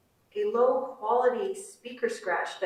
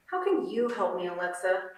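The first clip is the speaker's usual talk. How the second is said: sarcastic. Acted. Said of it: "I say sarcastically".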